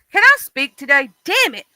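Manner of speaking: exasperated self-scolding; frustrated at herself. Real, not acted. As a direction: snap at her own stumbling tongue. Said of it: "that's that Mississippi coming out in me".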